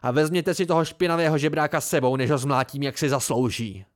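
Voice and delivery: red-faced raging threat; furious shout at the beggar; enraged. Acted. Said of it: "rudý ve tváři a rozzuřený".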